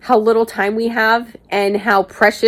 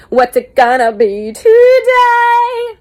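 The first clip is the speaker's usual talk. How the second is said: signature catchphrase; 12 semitones higher, 4 dB louder, much slower than usual. Retold or imitated.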